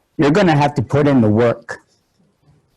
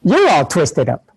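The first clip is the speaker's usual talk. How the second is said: sarcastic tease. Retold or imitated. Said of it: "goofy me and my sarcasm".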